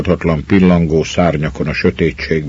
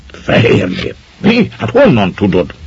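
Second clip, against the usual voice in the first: "Fehér nép?" breathed out in a hushed, eager whisper; excited echo question; 4 semitones higher than usual. A narrator's reading. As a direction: echo it back, amazed and hushed.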